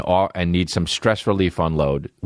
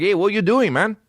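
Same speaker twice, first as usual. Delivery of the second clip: calling out; 11 semitones higher than usual. Retold or imitated. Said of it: "they're like".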